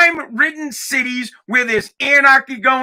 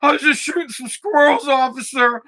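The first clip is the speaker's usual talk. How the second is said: lightly voiced apologetic teenager, a bit higher; poor scared kid; 4 semitones higher than usual. Imitating a teenager apologizing to an officer, poor kid voice. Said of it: "this fucking poor kid".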